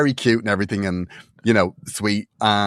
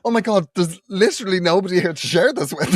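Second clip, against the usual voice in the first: inner plea; 8 semitones higher than usual. Retold or imitated. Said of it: "my heart was just going".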